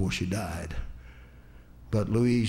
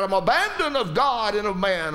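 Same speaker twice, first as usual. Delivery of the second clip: mild retold cry; 7 semitones higher, 4 dB louder than usual. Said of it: "He cried out".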